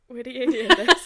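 loud, high blurted question; mock a friend bursting with news; imitated eager chatter.

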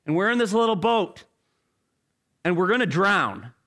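fast, mildly sarcastic answer; sarcastic reply. Acted. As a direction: point out the obvious. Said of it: "I would probably respond back".

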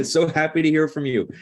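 hammed-up English greeting; English accent. Repeating the Englishman's phone greeting for laughs, English accent. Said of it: "That's my English accent".

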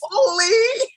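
high, squealing "Holy!" cut off by a laugh; a soul suddenly finding itself in a body, shocked; shocked gasp. Retold or imitated. Soul landing on earth, shocked high squeal.

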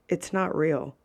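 put-on low, quiet flat statement from a kid; mild deadpan kid. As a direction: quote the kid softly and matter-of-factly. Quoting the little kid, low-key.

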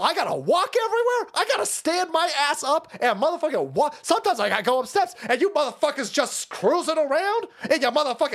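hammed-up indignant ranting; mock outraged rant. Mock rant at wheelchair users.

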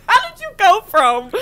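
high, loud, laughing challenge; teasing disbelief. Real, not acted. Friend challenging a changed story, laughing disbelief. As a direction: call them out through laughter.

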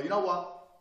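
mock exasperated exclamation; fed-up outburst. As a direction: act reaching breaking point, voice up. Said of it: "You get to the point and go".

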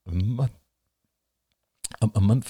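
hushed disbelieving question; stunned question. A narrator's reading. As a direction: repeat it in disbelief. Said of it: "Ian swallowed".

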